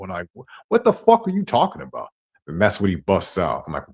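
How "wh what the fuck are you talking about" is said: much higher, stunned disbelief; retold incredulous outburst. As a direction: sound floored by the accusation. Retold own outraged reply.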